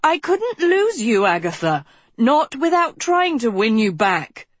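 high, wavering plea. A narrator's reading. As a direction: let the voice tremble upward. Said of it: "pitch wavering".

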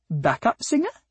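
high, sweet questioning lilt; breathy, sweet voice. A narrator's reading. Flower guessing at the cat's job, breathy and sweet. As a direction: ask it sweetly, pitched well up. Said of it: "said a breathy, sweet voice".

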